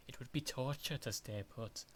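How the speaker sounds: a rough Scottish accent, out of practice. Shown as a demonstration. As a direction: try the line in a Scottish accent. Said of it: "my Scottish voice is not in shape".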